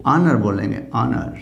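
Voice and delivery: "ऑनर" starting on the vowel, low; silent H. Shown as a demonstration. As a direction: say "ऑनर" without any h. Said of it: "इसको क्या बोलेंगे?". ("ऑनर" बिना ह के)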